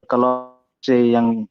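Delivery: choppy robotic bad connection; glitchy digital breakup on a call; half robot voice. Real, not acted. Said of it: "suaranya kayak robot".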